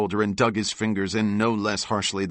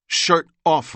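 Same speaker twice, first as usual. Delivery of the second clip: barked order; 9 semitones higher, 8 dB louder than usual. Acted. DeMarco orders a public strapping.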